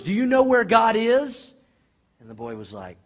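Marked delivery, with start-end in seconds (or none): 0.0-1.5 raised voice, slow and pressing; high, loud, drawn-out question; insistent pastor. Acted. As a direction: press the boy for an answer. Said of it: "he got really upset".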